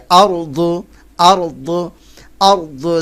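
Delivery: আরদু with the Arabic ض from the tongue edge; আরদু with a heavy ض and a rising end; Arabic dad sound. Shown as a demonstration. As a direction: press the tongue edge to the upper molars on আরদু. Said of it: "দাঁতের গোড়ার সঙ্গে লাগে".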